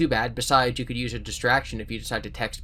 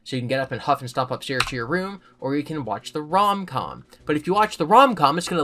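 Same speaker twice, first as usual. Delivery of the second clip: even storybook reading voice; steady read-aloud narration; story narration. A narrator's reading. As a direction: read the book to listeners. Reading a choose-your-own story aloud.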